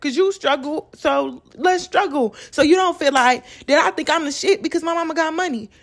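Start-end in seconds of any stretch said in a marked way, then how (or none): 0.0-2.4 slow, humble sympathy. Acted. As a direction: gently offer solidarity, taking your time. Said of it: "But the humble me be like".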